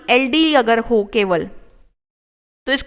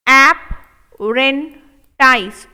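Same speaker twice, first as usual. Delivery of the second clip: stretched very slow, syllable by syllable; slow drawn-out model; much slower than usual. Shown as a demonstration. Teacher stretching the word slowly for students. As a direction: spell it out slowly for the class. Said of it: "teacher drills slow model take".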